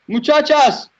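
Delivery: high, loud gasp and cry for the horse; horrified cry. Real, not acted. Gamer crying out as his horse is lost, horrified. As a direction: cry out the horse's name in horror.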